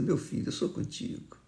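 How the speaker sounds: soft whisper of reassurance; whispered comfort. Retold or imitated. Jesus quietly assuring the preacher, whispered. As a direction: whisper it like a tender promise.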